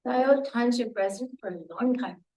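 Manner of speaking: rough, worn-out voice; talking through a sore throat; hoarse voice. Real, not acted. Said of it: "Apologize for the voice".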